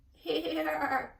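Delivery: high bleating lamb voice with a laugh; lambs answering. A narrator's reading. Lambs answering the roll call, high and giggly. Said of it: "answered the lambs together".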